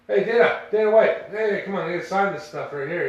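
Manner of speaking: a fan shouting for an autograph in the crowd; mock shouting. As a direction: yell across the crowd to grab his attention. Brother calling to Dana White.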